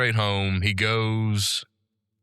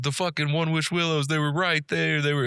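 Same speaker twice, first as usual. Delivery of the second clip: mild mock panic, higher pitch without shouting; retold freak-out; 5 semitones higher than usual. Customer freaking out at store clerk over missing willows, mock agitation. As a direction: imitate someone freaking out, voice lifted. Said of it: "he freaks out".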